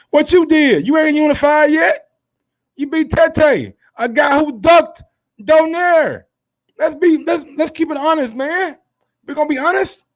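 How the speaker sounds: high, loud and worked up; rising heat, calling him out; fired-up rant. Real, not acted. Heated rant about Tete's record.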